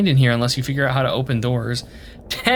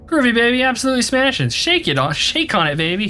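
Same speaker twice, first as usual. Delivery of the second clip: groovy swinger; 8 semitones higher than usual. Pretend. Voicing a swinging sixties figure.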